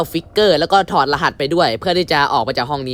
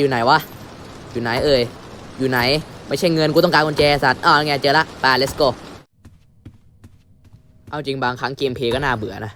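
polite show host voice. Acted. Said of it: "พวกกูเลิกพูดเสียงแบบนี้ดีกว่า".

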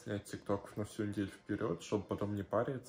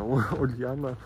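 calling out; 3 semitones higher, 9 dB louder, slower than usual. Real, not acted. Calling out niece's name.

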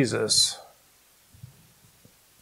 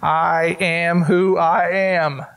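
awed; slower than usual. Real, not acted. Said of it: "I can hardly say it".

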